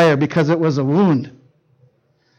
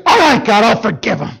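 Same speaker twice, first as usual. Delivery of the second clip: didn't break nice; 3 semitones higher than usual. Retold or imitated. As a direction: blurt it out, resentful and forced. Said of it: "I didn't break nice".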